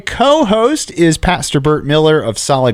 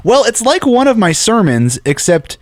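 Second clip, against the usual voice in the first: higher, lightly mocking pastor voice; pastor impression; 7 semitones higher than usual. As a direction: play the co-host pastor teasingly. The speaker voices Pastor Bert.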